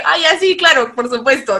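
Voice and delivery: fake agreement. Pretending to understand the caller.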